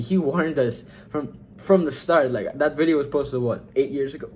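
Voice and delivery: talking through hiccups; words broken by hiccups. Real, not acted. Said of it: "Why am I hiccuping?".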